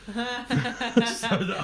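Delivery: slow, laughing sheepish confession. Retold or imitated. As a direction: own up through laughter, slowly. Friend jokes about the big cat.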